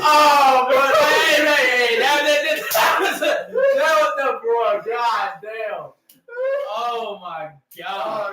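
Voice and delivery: high panicked shouting; yelling in a gaming panic; panicking gamer. Real, not acted. Game moment panic.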